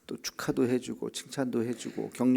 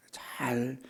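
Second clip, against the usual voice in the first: soft whispered word; hushed emphasis; 4 dB quieter, much slower than usual. Shown as a demonstration. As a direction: breathe the word gently. Whispering to stress careful listening.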